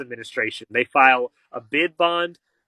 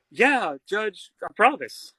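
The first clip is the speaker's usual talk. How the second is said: higher, eager yeah judge; eager dad; 6 semitones higher, slower than usual. Retold or imitated. Father promising the judge to get released, eager and compliant. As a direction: agree quickly, just wanting out.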